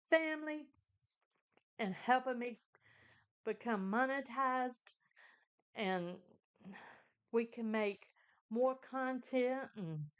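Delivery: earnest spoken prayer; saying grace. Real, not acted. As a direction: pray it sincerely, like grace at the table. Says grace before eating.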